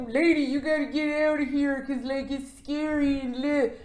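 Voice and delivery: lightly imitated deadpan hero; deadpan Ethan. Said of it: "in his normal deadpan ass way".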